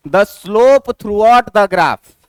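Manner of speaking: the whole phrase in one measured, connected go; read out whole. Shown as a demonstration. Teacher reading the rule for a straight line, read out whole. Teacher first reads out the definition.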